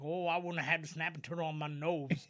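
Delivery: lightly voiced Cajun character; Cajun impression. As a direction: imitate a Cajun talking. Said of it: "That's a great impression".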